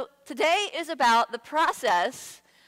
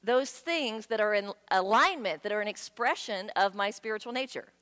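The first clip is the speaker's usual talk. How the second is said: earnest prayer. Retold or imitated. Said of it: "So what we're praying for is".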